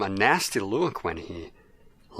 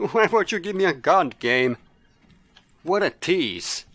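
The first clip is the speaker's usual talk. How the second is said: laughing complaint; 8 semitones higher, 5 dB louder than usual. Real, not acted.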